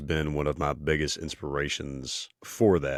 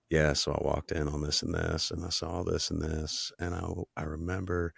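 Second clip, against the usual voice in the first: softer, casual end-of-day recounting; personal storytelling; 4 dB quieter than usual. Shown as a demonstration. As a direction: tell it privately, as if to a spouse. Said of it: "exactly where my voice tends to go".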